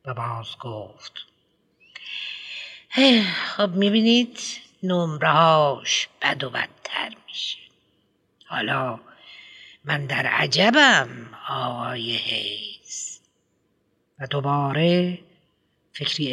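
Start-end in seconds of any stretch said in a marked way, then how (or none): 2.9-13.2 a pompous headmistress lecturing a parent; prim schoolmistress voice, raised pitch; fussy headmistress. Acted. Headmistress reviews report card.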